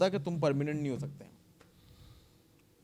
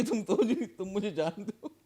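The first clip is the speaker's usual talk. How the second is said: angry memory; retold anger; 5 semitones higher than usual. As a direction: relive the rush of anger. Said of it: "फिर मुझे आए गुस्सा".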